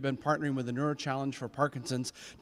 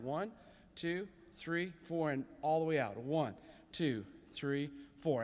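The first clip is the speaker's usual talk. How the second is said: soft counting; 5 dB quieter, slower than usual. Shown as a demonstration. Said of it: "Here we go with your arms".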